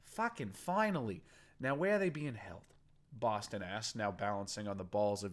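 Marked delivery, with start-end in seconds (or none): 0.0-2.6 a gang boss snapping, higher in pitch; furious gang boss. Acted. Boston interrogating the captive, furious. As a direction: demand an answer, furious.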